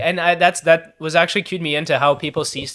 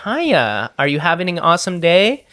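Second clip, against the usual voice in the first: put-on chirpy counter girl; 3 semitones higher, slower than usual. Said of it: "the girl behind the counter said".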